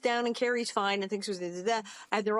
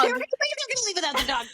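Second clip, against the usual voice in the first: high, louder outrage; gasping at them leaving the dog behind; mock alarm; 11 semitones higher, 3 dB louder, faster than usual. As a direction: cry it out, scandalized.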